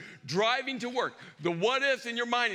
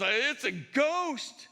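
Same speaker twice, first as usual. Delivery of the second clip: drawn-out fearful cry; much slower than usual. Retold or imitated. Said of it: "all they could get out was".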